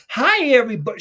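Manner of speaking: high, loud cheery greeting; happy child. Retold or imitated. Michelle coming home from school unaware, happy greeting. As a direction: call it out high and happily. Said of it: "She's fucking happy".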